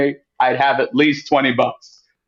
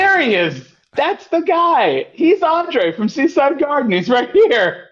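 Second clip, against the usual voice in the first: mock announcer; 11 semitones higher than usual. Joking to the host about viewers spotting him, high showy voice. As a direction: present yourself like a found exhibit.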